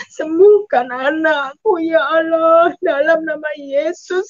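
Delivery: slow, wailing prayer for healing; retold tearful plea. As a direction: re-enact a mother imploring God. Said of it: "Saya menangis". (doa meratap memohon kesembuhan)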